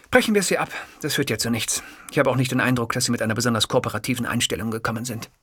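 mildly irritated reporter; annoyed interviewer. Acted. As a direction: break off in exasperation.

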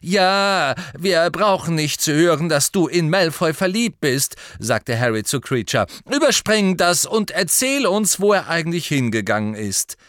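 Harry brushing Kreacher off; impatient Harry. A narrator's reading. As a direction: cut him short.

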